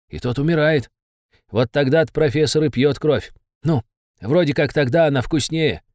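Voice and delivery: high, anxious little demon; a cowed imp giving in; nervous demon voice. Acted. Besov tells of professor.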